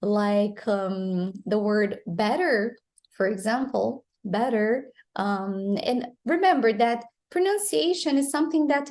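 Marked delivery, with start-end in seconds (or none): 2.1-2.8 "better" with the T as a quick tap; flapped T. Shown as a demonstration. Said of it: "make the tap or flap sound". 4.2-4.9 "better" with a light tap between the vowels; flapped T. Shown as a demonstration. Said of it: "make the tap or flap sound".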